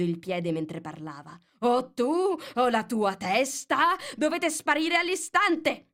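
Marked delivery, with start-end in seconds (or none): 1.6-5.8 higher, louder, slow royal threat; commanding queen voice; furious queen. A narrator's reading. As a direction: threaten her like a tyrant queen.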